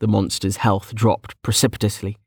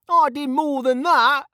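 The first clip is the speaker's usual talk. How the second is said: high-pitched aggrieved protest; whining complaint. Acted. Mage objecting to his small contribution score, whining. Kettle whines about contribution.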